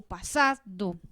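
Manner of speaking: pasado slowed and drawn out by syllables; slow, separated syllables on "pasado"; syllable demo. Shown as a demonstration. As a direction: stretch pasado into pa, sa, do. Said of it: "se dividió por sílabas".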